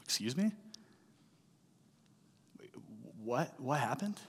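stunned. Retold or imitated. Son hearing grandma died, softly stunned disbelief. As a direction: barely get it out, in shock. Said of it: "My mood went from vacation to".

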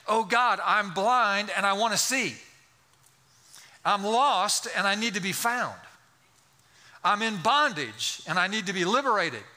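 acted cry of need to God; fervent plea. Lost sinner asking God for rescue, fervent plea. Preacher voices a sinner's prayer.

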